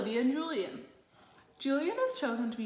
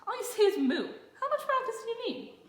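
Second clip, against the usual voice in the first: teasing, higher, with laughter; laughing; 13 semitones higher than usual. A narrator's reading. Brother Ian laughing at Olivia needing practice for moo. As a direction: laugh him off while teasing. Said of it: "but he just laughed".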